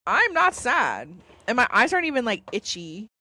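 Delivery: insisting she's fine through tears; teary but not sad. Real, not acted. Telling viewers she isn't sad, tearfully insisting. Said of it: "I'm crying".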